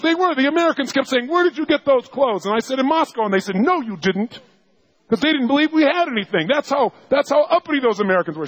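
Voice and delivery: high-pitched, indignant wife retelling the insult. Retold or imitated. Wife retelling how Americans mocked her clothes, indignant and high.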